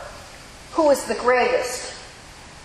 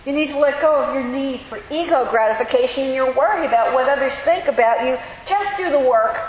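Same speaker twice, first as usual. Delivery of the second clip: brisk retelling; 2 semitones higher, faster than usual. Acted. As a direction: rattle it off in one urgent sweep. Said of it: "But let's imagine it".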